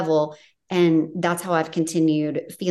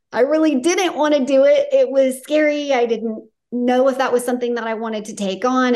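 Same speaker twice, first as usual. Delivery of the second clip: voicing her conviction; 4 semitones higher, 4 dB louder than usual. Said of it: "hear the conviction in your voice".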